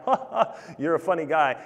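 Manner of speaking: sarcastic, a high mock "ha, ha"; scornful mockery. Mourners scoffing at Jesus, sarcastic and mocking. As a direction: sneer it out, mocking his claim. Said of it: "It is like a scornful laugh".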